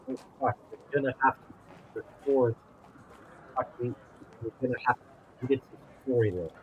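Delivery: choppy, low quality audio; breaking up over a bad line; bad connection. Real, not acted. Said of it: "you sound really low quality or something".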